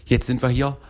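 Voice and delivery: playful East German dialect, rising at the end. Pretend. East German woman joking with her podcast guest, regional dialect. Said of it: "Bei mir würden wir auch so sprechen".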